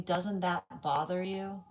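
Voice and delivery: drawn-out, slow needling question; slow mock question. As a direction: ask it slowly, as if prying. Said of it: "versus saying".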